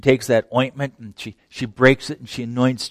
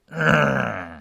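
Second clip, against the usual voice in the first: disgusted ugh; 2 semitones higher than usual. Retold or imitated. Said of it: "It's like".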